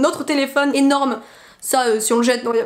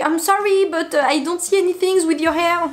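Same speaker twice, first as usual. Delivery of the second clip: politely in English, a bit higher; polite English aside; 4 semitones higher than usual. Retold or imitated. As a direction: complain nicely to the English girl. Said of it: "je fais". (anglais poli, un peu plus aigu)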